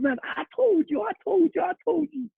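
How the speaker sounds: be the teammate screaming down the touchline; imitated teammate's ecstatic yell. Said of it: "He's going".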